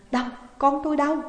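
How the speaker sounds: quick, loud and high, stress on con; eager cry. A narrator's reading. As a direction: blurt it out, desperate hope. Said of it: "Bà Tư reo lên". (mẹ reo lên hỏi con, nhanh và to)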